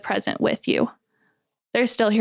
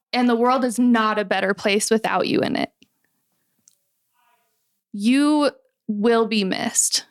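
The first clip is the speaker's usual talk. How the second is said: reassuring. Real, not acted. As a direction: gently tell them they matter. Reassuring suicidal listeners.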